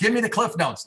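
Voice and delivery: high mock plea for the cliff notes; mock whiny request. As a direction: pitch it up like a lazy friend begging. Mimics Pete's request.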